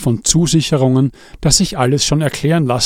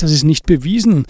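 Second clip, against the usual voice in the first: incredulous echo; 4 semitones higher than usual. Acted. Andi echoes in disbelief.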